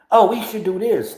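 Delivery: high, sing-song eager suggestion; mock eager friend. Imitating someone pouncing on his free time, high voice. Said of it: "they waiting for you to say".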